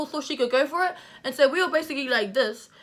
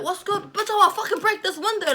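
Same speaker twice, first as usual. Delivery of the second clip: retold threat; 8 semitones higher than usual. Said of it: "And then I was like".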